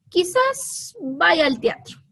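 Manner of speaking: "Quizás vaya al teatro" slow and hesitant; doubtful. Shown as a demonstration. Teacher reading the doubt sentence, hesitant. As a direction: drag it out unsure. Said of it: "la forma en cómo yo lo leo".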